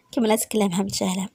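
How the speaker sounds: ordinary delivery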